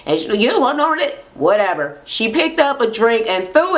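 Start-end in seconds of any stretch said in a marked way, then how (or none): 0.4-1.2 higher-pitched incredulous echo; retold dare, pitched up; challenge thrown back. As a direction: imitate a rival tossing the dare back.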